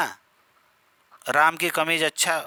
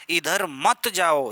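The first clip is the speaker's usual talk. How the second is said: very slow, मत pressed firmly; stress on मत; much slower than usual. Shown as a demonstration. Teacher showing emphasis to students, मत stressed. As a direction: slowly forbid it, leaning on मत. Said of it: "इसमें आप बल देंगे".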